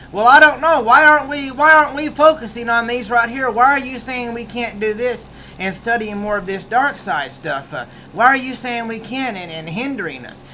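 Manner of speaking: high, loud mock protest; Dark Jedi protest. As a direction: argue back like a defiant rebel Jedi. Dark Jedi arguing with regular Jedi.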